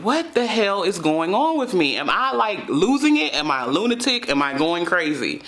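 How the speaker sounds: replaying the panic as it spiked; panicked self-questioning. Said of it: "I'm like".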